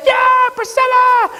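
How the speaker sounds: high, loud joyful shout; imitating a mother's ecstatic cheer; mom screaming. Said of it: "she screamed even more".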